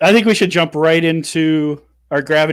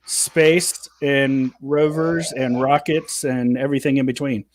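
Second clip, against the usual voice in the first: game show host voice. Acted. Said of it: "I'm using my game show host voice today".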